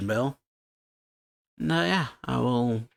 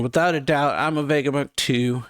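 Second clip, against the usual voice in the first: a louder, mildly mock shout; retold yell; 3 semitones higher, 4 dB louder than usual. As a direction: call it out with half-hearted force. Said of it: "York's yelling".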